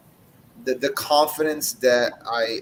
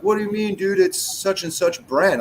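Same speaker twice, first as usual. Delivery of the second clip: mock disbelief, pitched much higher; incredulous friend; 8 semitones higher than usual. Retold friend defending a name brand, high mock disbelief. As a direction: sound shocked anyone would knock that brand.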